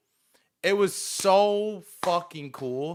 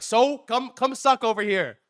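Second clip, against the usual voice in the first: raised, insistent mock challenge; imitating a pushy pool player; pushy goading; 8 semitones higher than usual. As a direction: goad him over, pitched up. Pushy player presses him, retold.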